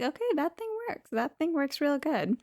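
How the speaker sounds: mock impressed. Sister impressed by the app.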